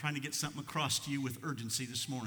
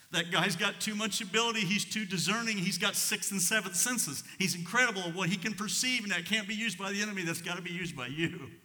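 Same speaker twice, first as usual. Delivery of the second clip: fervent prayer; 7 semitones higher, 6 dB louder than usual. Retold or imitated. Fervent prayer for his son.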